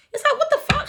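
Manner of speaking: high laughing what-the-fuck outburst; laughing disbelief. Real, not acted. Tarot reader laughing at petty Libra games, incredulous.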